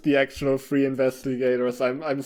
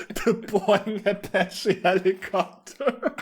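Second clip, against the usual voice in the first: laughing through the words, slow and higher; 6 semitones higher, slower than usual. Real, not acted. Reader amused by a misspelling in the story, laughing. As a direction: repeat it while cracking up.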